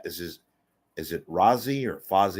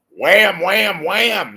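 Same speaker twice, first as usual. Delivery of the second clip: excited; 10 semitones higher, 9 dB louder, much slower than usual. Acted. Playful exaggerated wham.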